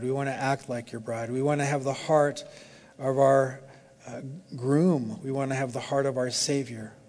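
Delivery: earnest, even-toned prayer. Real, not acted. Pastor praying for the church at the close, earnest prayer. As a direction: pray aloud steadily, phrase by phrase.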